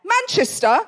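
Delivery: mock-confident man chiming in, drawn out; very confident heckler. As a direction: announce it slowly with total certainty. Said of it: "very confidently just went".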